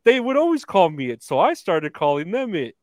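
lightly lampoon the wrestler's excuse; imitating Hogan. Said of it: "He's like".

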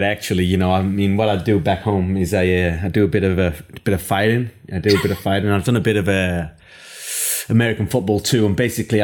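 put-on American, casually overconfident; American accent. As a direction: brag like an American self-styled rugby expert. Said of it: "an American who has just watched".

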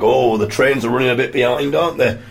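chatty stranger. Retold or imitated.

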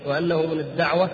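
usual speaking voice

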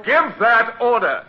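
slow, loud, each word set down; slow firm command. Acted. Midshipman presses the French officer to obey, slow firm command. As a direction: leave no room to refuse.

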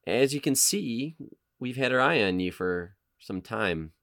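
slow, measured menacing agent; lightly voiced cold interrogator; Agent Smith read. Agent calmly threatening a captured hacker, measured. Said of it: "Is it The Matrix?".

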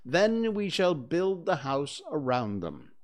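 understated captain's instruction; giving orders. Acted. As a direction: lay out the plan with authority. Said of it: "Peter ordered".

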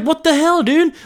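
high squeaky outrage. Retold or imitated. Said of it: "he's like".

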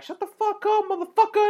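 high, loud snapped-back yell; high-pitched imitated girl yelling; mock yell. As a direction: tell them off over your shoulder. Girl turns back yelling at dudes.

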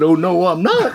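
laughing refusal; a touch of indignant backtalk; mock protest. Man argues back with God, mock protest.

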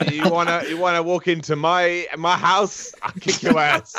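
hammed-up tough guy challenge; belligerent drunk. Mock tough-guy callout.

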